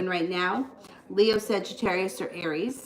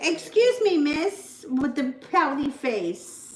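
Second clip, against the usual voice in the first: a light, higher teasing coo; 5 semitones higher, slower than usual. Real, not acted. Teasing her pouting baby.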